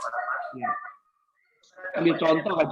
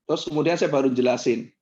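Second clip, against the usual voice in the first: normal talking voice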